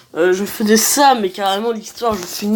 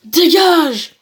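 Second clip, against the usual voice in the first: raised, commanding battle cry; acted shout; 4 semitones higher, 4 dB louder than usual. Player acts out the game's battle text, acted shout. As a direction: order them off in character.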